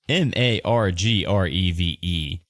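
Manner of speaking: ordinary talk, nothing marked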